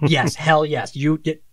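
high, loud mock enthusiasm; excited approval. Director loving the writer's accidental idea, mock excitement. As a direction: jump on the idea like an eager director.

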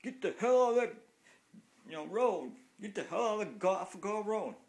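high, loud mocking shriek of a woman driver; mocking angry woman driver. Cyclist mimics a woman yelling from her car, high mocking shriek. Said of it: "I've had women".

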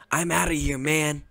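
high panicked call, easing down; panicked exit. Acted. Boyfriend ditches girlfriend and runs, high panicked call.

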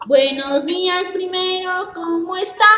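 nasal with nose held shut; nose pinched. Shown as a demonstration. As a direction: say it holding your nose. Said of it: "con la nariz tapada".

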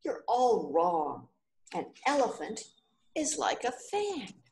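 a light hammed-up shout of frustration; mock shout. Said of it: "The fifth man started to shout".

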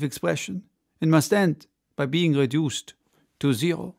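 a confident showman's speech with a hint of French; French orator. Ardan addresses the crowd of spectators, lightly voiced grand orator.

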